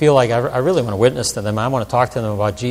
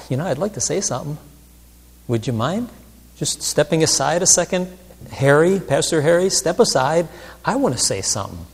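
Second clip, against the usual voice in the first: God politely interrupting; 3 semitones higher than usual. Retold or imitated. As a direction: gently ask to cut in from the background. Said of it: "is in the background going".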